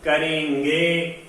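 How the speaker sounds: करेंगे stretched slowly with nasal vowel; slow model word. Shown as a demonstration. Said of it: "बोलो".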